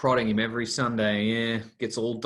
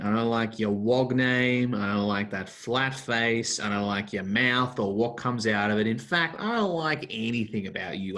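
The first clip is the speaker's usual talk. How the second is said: hostile tirade. Acted. Man tells the policeman he despises him, in a hostile tirade. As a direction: tear into the cop with contempt. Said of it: "That's about the nicest character reading".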